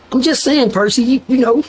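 high mock white accent; high, put-on white-boy accent; Blue's white accent. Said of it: "Blue had the accent".

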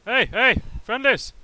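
calling out. Real, not acted. Calling out to other team.

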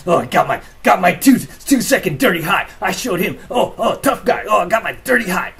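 high, loud mocking whine of the bully; sneering parody of the other driver. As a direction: mimic him like a smug little tough guy. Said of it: "He was like".

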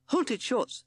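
terrified of a ghost; Hissing Sid panicking at haunted shorts; frightened cry. Acted.

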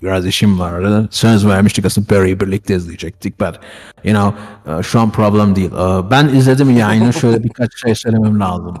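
deep filtered streamer voice. Acted. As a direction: talk through a low voice effect. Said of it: "Şimdi sesim nasıl kral?".

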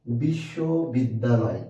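বিশ্ববিদ্যালয় drawn out slowly; slow, measured word. Shown as a demonstration. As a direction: spread out বিশ্ব, বিদ্যা, লয় in বিশ্ববিদ্যালয়. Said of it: "এটার ভিতর কয়টা অক্ষর আছে".

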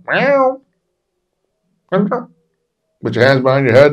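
loud, high barked order; retold police command. Police officer ordering the storyteller at the building, shouted command. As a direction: call out a cop's order.

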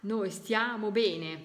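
slow, weight on noi; slow repeat. Shown as a demonstration. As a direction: spell the message out gently. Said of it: "Vedete quando i messaggi". (lento, accento su noi)

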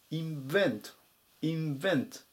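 インベント as English in-VENT, stress on the second syllable; インベント with the accent on "vent"; careful word accent. Shown as a demonstration. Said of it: "アクセントに注意ですね".

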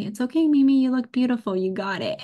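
high, loud sweet encouragement; coaching line to mom. Retold or imitated. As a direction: cheer her on like a little coach. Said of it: "but you just say".

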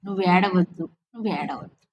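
a quiet plea that dies down with each repeat; fading gentle repeat. Retold or imitated. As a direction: soothe him, letting the plea fade away. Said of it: "ఒకటే చెప్తున్నాడు మాటి మాటికి".

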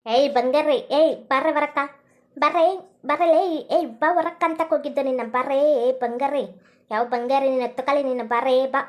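put-on a drunk woman shouting for her friend, slurring. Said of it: "ಕುಡ್ಕಿ ಬಂದಾಳೆ".

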